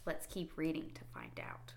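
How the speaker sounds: hushed, secretive whisper. Real, not acted. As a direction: lean in and whisper it. Reader's aside to child listeners.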